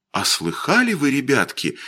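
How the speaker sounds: plain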